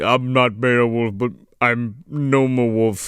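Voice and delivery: low, slow character voice; Norm. Acted. Riffing on the gnome as Beowulf, slow low imitation. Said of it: "he talked like Norm".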